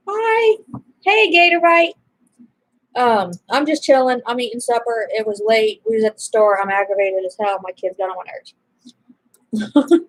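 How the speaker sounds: mock phone greeting. Acted phone call greeting.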